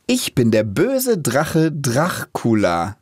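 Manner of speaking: slow, lightly narrator-like. Shown as a demonstration. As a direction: read like a storyteller. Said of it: "wie so ein Erzähler". (wie ein Erzähler)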